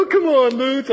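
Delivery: high, loud whiny protest; loud high mock whine; whining students. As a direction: moan at him like students begging. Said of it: "And they would go".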